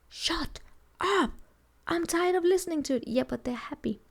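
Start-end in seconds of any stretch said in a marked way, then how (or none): 0.1-3.1 high, strained mock outburst; a hammed-up fed-up dad snapping; fed-up father. Father snaps at nagging child, mock exasperated. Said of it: "who have not seen a father go".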